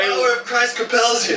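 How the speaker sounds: mock exorcism yell. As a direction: call it out like a hammed-up exorcist. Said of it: "you're just yelling that".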